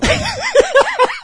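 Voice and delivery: squeaky high-pitched laugh. Real, not acted. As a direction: burst into a high giggle.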